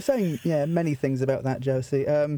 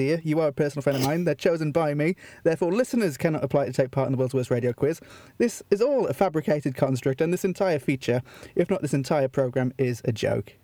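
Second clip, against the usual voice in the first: lower, deadpan official reading; mock legal disclaimer; 3 semitones lower than usual. Host reading legal twaddle to contestant, deadpan official. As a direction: read it out like solemn small print. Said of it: "I need to read this legal disclaimer".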